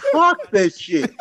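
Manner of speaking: slow laughing curse. Real, not acted. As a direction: laugh through it slowly. Laughing dismissal.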